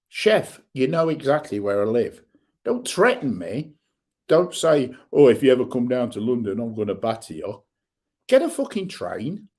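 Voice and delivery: heated, rising rant at online trolls; furious and defiant, calling them out; angry rant. Real, not acted. Vlogger ranting at anonymous trolls, angry. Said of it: "That's me rant over".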